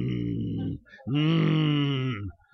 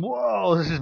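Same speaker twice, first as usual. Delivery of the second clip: surprised whoa; 5 semitones higher, slower than usual. Retold or imitated. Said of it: "I was going".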